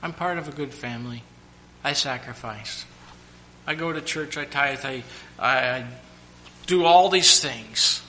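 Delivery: listing good deeds, smug then loud; a churchgoer boasting, rising to a shout; mock self-righteous. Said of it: "you think somehow you deserve it".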